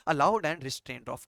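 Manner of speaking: very slow, word by word; slow dictation. Shown as a demonstration. Teacher repeating the definition for students, very slowly. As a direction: spell it out slowly for notes. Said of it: "क्या होता है बच्चे".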